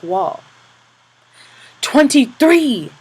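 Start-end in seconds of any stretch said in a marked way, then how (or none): 1.8-2.9 slow, loud, high shouted count; drawn-out count shout. Acted. Capo shouting the lash count, slow and loud. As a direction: stretch the number out as a shout.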